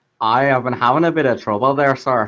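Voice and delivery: put-on comedy Irish accent, jokey. Acting a scene, replying to another character in a comedy irish accent. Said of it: "He also puts on a comedy Irish accent".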